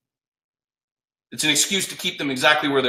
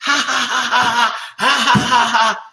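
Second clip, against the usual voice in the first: high-pitched mock ha-ha laugh; imitating her laugh; 10 semitones higher, slower than usual. Coach acts out client wife laughing at the offer, high mock laugh. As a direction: laugh it out high like she did. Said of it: "She starts laughing".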